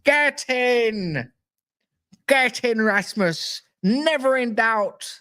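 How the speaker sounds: rising hyped chant of the name, then slow; building mock celebration; mock commentator call. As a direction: ham it up like a goal call. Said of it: "I can go".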